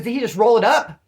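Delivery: imitating someone caught off guard; incredulous retold question. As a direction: fire it out as a startled question. Retelling the man's startled question.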